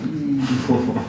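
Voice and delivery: slow, hushed, drawn-out wondering; spooky musing. Pretend. Staring into the dark loch, hushed slow wondering. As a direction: trail off as if peering into dark water.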